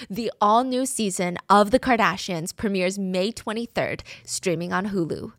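polished streaming-show promo; ad read. Acted. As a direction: announce a TV premiere. Reads a promo advertisement.

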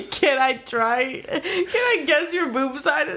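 slow, teasing imitation of friend; mock quoting friend. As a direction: drag it out mocking her. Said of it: "You say".

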